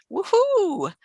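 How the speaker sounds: high happy whoop; cheer. Real, not acted. Cheering a viewer's comment, high whoop. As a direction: cheers her on.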